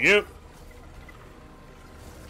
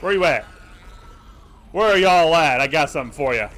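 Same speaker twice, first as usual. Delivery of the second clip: loud taunting villain; wild unhinged ranting; 3 semitones higher, 6 dB louder than usual. Pretend. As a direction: shout threats like a madman. Taunting monsters, villain laugh.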